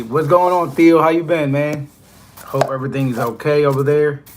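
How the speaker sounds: light up and greet your viewer Theo; cheerful greeting. Real, not acted. Trucker greeting his viewer Theo warmly and loudly.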